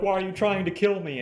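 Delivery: high, loud panicked question; frightened plea. Retold or imitated. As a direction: beg him in terror. Christine pleads in fear.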